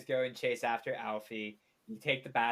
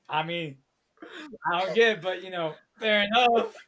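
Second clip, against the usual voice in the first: inner voice; 5 semitones higher, 8 dB louder than usual. Acted. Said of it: "voice in your head goes".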